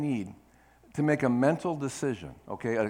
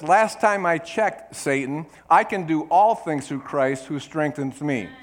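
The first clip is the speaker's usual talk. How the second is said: louder, slow defiant retort; defiant declaration; 2 semitones higher, 6 dB louder, slower than usual. Retold or imitated. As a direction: stab back at the devil with scripture. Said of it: "push the sword into his back and say this".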